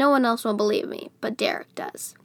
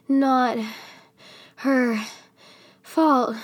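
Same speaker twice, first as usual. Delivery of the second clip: word by word with long gaps, louder; out of breath; 2 semitones higher, 3 dB louder, much slower than usual. A narrator's reading. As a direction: push out each word between breaths. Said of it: "he's out of breath".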